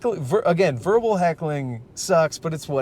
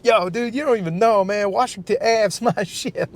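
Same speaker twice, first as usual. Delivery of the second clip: high, loud bro-ish imitation; mock drunk local; 8 semitones higher, 3 dB louder than usual. A comic mocking the heckler who claims Lansing, as a high brash bro. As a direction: lampoon the town menace bragging.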